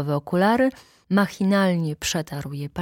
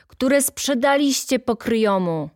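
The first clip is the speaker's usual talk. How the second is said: raised mock heckle; shout from the hall; 8 semitones higher, 5 dB louder than usual. Heckler Fornal accusing Stasinek, a mild mock shout. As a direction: heckle him lightly from the floor. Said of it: "krzyknął Fornal z pokrzywek".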